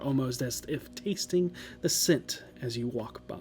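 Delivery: soft eerie whisper. Acted. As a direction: breathe the last words. Eerie narration ends in a whisper.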